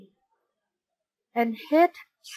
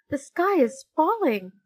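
high frightened cry; a chick crying out in fright; panicked cry; 6 semitones higher than usual. Acted. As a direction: pitch it up in alarm. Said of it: "cried Chicken Licken".

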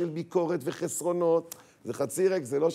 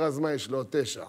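calm husband; 5 semitones lower than usual. Retold or imitated. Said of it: "איך הטון הזה?".

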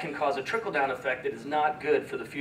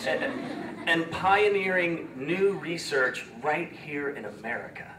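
slow words through a tearful laugh; laughing off the tears; teary laugh; slower than usual. Real, not acted. Speaker laughing through tears at kids' event. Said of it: "I'm getting so emotional".

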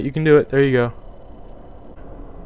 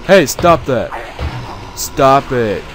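scolding shout; 4 dB louder than usual. Real, not acted. Scolding attackers.

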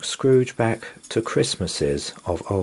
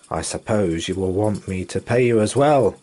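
put-on a touch of grumble, mean old man; grudging, lightly voiced miser; grumbling Scrooge; 5 dB louder than usual. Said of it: "grumbled Scrooge".

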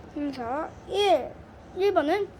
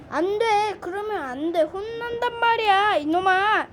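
louder playful scolding; mock scolding; 4 semitones higher, 4 dB louder than usual. Host scolding the naughty toy, playful.

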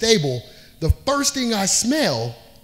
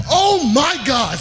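scared gasp; 7 semitones higher, 4 dB louder, slower than usual. Retold or imitated. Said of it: "So I was like".

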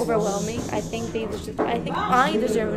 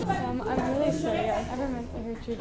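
mock apology; 11 dB quieter, faster than usual. Shown as a demonstration. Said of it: "showing you guys apology tutorial".

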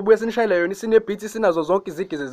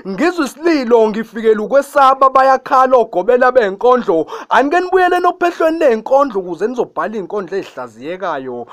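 poem recitation. Acted. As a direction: recite it like an imbongi, chanting the refrain. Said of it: "angeke nginishayele i-acapella yayo".

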